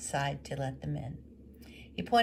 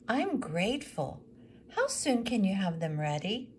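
higher, thankful then asking; widow's voice; 4 semitones higher, 3 dB louder than usual. Acted. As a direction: thank him and press gently.

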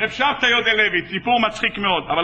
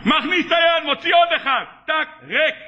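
worked-up, raised-pitch narration; agitated search; 5 semitones higher than usual. Retold or imitated. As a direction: act out mounting frustration, pitched up. Exasperated search, acted out.

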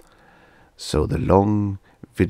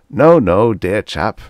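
flustered interruption; 3 semitones higher, 8 dB louder, slower than usual. Acted. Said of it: "the professor managed to say".

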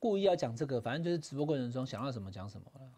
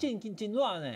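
put-on Kaohsiung accent; 5 semitones higher than usual. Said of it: "高雄就金热".

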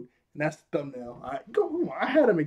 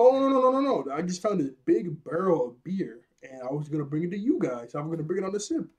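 nervous Kobe voice; 2 semitones higher than usual. Retold or imitated. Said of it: "He's like".

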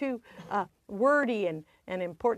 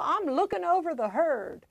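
joking comeback; 4 semitones higher than usual. Retold or imitated. Grandchild joking to Grandpa about marriage, light retold quip. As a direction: own joking reply, pitch lifted. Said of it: "And I'd say".

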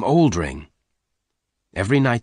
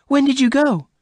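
very high, louder appalled question; horrified; 5 dB louder than usual. A narrator's reading. Bess questions Venters about the hideout, horrified. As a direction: demand it high and loud, aghast. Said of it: "Bess asked in horror".

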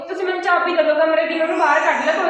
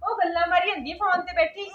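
tearful complaint. Acted. Daughter-in-law tearfully reporting the girl to her mother-in-law, tearful. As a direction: voice catching on a sob as she tells tales.

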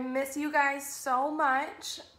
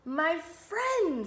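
higher, lifted exclamation; delighted fish; 4 semitones higher than usual. Acted. Fish's happy realisation.

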